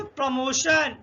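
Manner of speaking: प्रमोशन with the ending said as SH; slow down to show the SH in प्रमोशन; careful प्रमोशन, T sounded as SH. Shown as a demonstration. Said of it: "यहाँ शा का उच्चारण हो गया".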